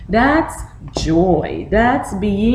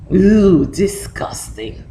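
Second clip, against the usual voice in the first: disgusted. Shown as a demonstration. Teacher shows the face for disgust.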